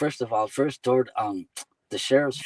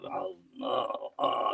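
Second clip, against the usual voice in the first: groggy groans; 2 semitones lower, 6 dB quieter, much slower than usual. Retold or imitated. Drunk rider finally getting up, groggy groaning.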